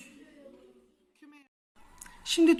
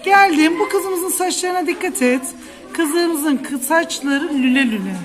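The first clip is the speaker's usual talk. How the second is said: high excited teacher voice; 4 semitones higher than usual. Shown as a demonstration. Teacher brightly introduces picture.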